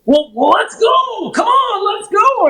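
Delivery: high, urgent mock shout; hurried client. Client in a hurry after paying, high urgent call. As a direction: rush everyone back to the ramp. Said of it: "he's like".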